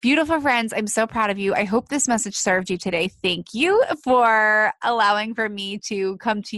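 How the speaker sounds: slightly nasal, stuffy voice. Real, not acted. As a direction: talk through a blocked nose. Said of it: "with a little bit of a nasally voice".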